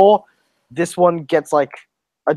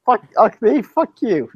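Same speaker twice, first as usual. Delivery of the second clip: mock argument; 8 semitones higher than usual.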